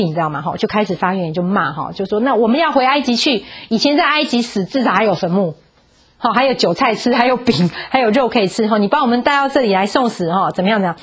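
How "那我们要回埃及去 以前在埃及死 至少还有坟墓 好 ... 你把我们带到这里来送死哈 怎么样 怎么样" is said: complaining. Retold or imitated.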